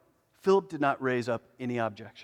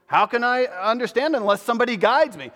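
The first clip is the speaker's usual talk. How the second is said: eunuch's plea; 8 semitones higher, 7 dB louder than usual. Pretend.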